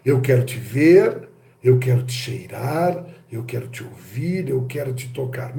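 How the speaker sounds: exploring the senses, sensual and fading. Acted. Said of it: "A exploração dos sentidos".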